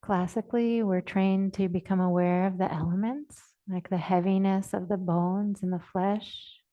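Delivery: measured, even phrases, long silences between; guided meditation. Real, not acted. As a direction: guide listeners unhurriedly into the body. Leads a body awareness meditation.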